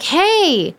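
mock careful talk to a non-English speaker; talking down slowly. Boyfriend's parents addressing her as a foreigner, slow and careful. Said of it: "Do they not know you speak English".

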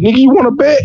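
high-pitched comic dare; cocky challenge. Acted. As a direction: goad them into a wager. God challenges Satan to a bet.

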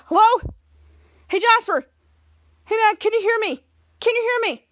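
calling out. Acted. Calling into the walkie-talkie.

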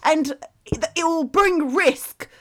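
halting, drawn-out public address, hammed up; Boris J. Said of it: "That's not a bad impression".

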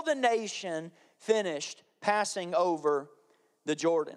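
measured, deliberate Bible reading; scripture reading. Acted. Pastor reading scripture to the congregation, solemn and measured.

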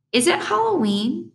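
put-on very high little-kid voice, rising; small child's question. A narrator's reading. Little brother asking his babysitter, high child voice.

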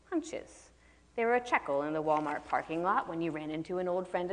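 measured novel reading to an audience; story reading. Acted. Author reading her prologue aloud to the audience, measured. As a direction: read the prologue calmly, for listeners.

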